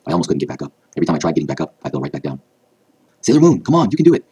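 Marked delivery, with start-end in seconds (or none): 3.2-4.2 high, loud rallying cheer. A narrator's reading. Rei urging her fallen friend to get up, loud cheering. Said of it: "I heard Rei cheer for me".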